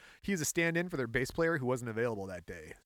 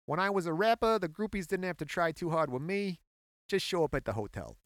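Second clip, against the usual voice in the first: put-on Boston accent; 5 semitones higher than usual. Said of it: "I wonder if I can do a Boston accent".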